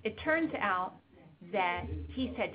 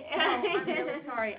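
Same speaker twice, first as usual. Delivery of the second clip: real apology; 6 semitones higher, 5 dB louder than usual. Real, not acted. Apologizes for running over time.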